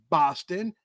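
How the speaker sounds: put-on a light Boston accent on Boston, dropped r, said like Bahstan; mock Bostonian Bahstan. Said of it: "that's my best Bostonian, uh, accent".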